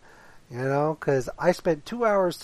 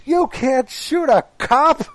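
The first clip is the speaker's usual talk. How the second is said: slow, higher, louder pleading cop; 11 semitones higher, 8 dB louder, slower than usual. Retold or imitated. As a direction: cry it out slowly, higher and louder. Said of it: "and he goes".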